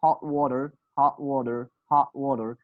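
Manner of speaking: American "hot water" with an open ah; American accent. Shown as a demonstration. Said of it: "American accent".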